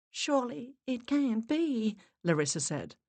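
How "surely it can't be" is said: disbelief. Acted. Larissa in disbelief.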